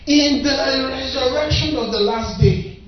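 slow, dragged mock of a someday faith; mocking far-off hope. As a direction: drawl it like a distant dream. Mocking Martha's distant hope.

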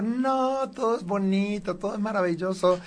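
a hint of fake sugary positivity; mock cheerful person. Mocking people who are always happy, lightly sweet. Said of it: "Cuando alguien está todo el tiempo".

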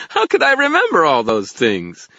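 high, loud, giggly fairy voice; amused fairy. A narrator's reading. Fairy laughs off the wizard's question, high and merry. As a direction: squeal it merrily as a tiny fairy. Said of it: "Toot let out a sparkling laugh".

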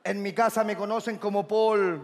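low, measured seducer; low heartthrob patter; suave galán introduction. Acted. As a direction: keep the boast deep and smooth.

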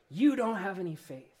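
a hint of a stern accusing voice; lightly voiced scolding, finger pointing; condemning voice. Reader hearing Jesus as a mild condemning voice. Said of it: "I hear a condemning voice".

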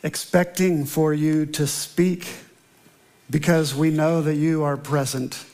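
measured, reverent pastor's prayer; a pastor opening worship in prayer, reverent. Acted. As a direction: lead the church in prayer, unhurried. Opening prayer before sermon.

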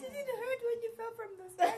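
high, overdone flirty delivery; cheesy pickup line. Retold or imitated. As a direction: lay on the corny pickup line. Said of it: "funniest pickup lines that you've heard".

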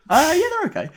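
deadpan teasing. Real, not acted. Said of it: "All right, mate".

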